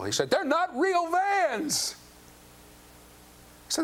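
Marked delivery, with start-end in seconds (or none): 0.3-1.9 put-on whiny teen. Son objects to fake shoes.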